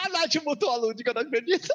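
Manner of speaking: falando entre risadas, agudo; rindo. Real, not acted. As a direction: ri sem acreditar, voz mais alta. Ri da rival silenciada. (rindo de verdade, incrédula)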